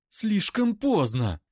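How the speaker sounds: drags it out shrieking; screaming, slow; high, loud, slow scream. Acted. Eira screams.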